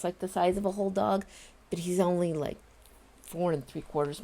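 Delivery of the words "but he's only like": ordinary delivery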